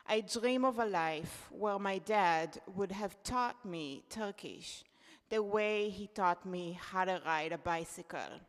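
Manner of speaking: ordinary talk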